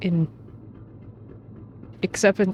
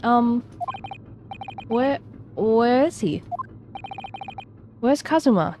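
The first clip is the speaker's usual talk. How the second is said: shocked disbelief; 9 semitones higher than usual. Acted. Character in shock.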